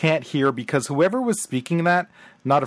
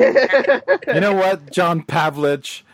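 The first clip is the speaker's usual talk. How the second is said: mock call-out; 3 semitones higher, 4 dB louder, much slower than usual. Host calls out letter writer.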